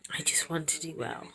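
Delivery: a soft, voiceless whisper of her wish. Real, not acted. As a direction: breathe it out as a whisper.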